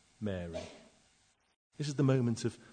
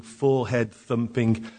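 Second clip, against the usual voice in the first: ordinary talk, nothing marked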